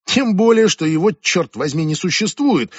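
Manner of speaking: loud, high outburst at the start, then easing; snapping. Acted. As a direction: lose your temper and lash out. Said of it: "сорвалась Джулия".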